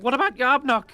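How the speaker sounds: high, loud goblin cry; frantic goblin. Acted. A fleeing goblin asking about their leader. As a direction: call out for the leader. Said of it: "they're like".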